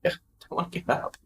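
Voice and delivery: whispered, half-asleep groan of protest; sleepy unvoiced grumble; groggy whine. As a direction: moan it like you can't face getting up. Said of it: "I'm like".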